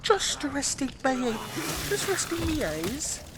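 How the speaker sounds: high, drawn-out comic character voice; high-pitched accented parody of an action hero; joke accent voice. Acted. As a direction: stretch it out in a silly high accent. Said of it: "the voice I'm doing with the accent".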